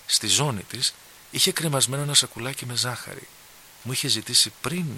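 ordinary delivery, nothing marked

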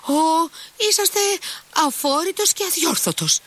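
a young girl's high, delighted mock scolding; playful exasperation. A narrator's reading. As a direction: scold him fondly, in delight.

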